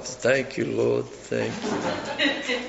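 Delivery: soft, low relieved thank you; a quiet murmur of thanks after the danger passes. Retold or imitated. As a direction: breathe the thanks softly to the Lord. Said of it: "And I just quietly".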